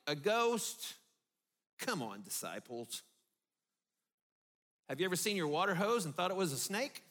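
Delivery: preacher teasing the disciples for fearing a ghost, mocking; mock disbelief. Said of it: "we're like".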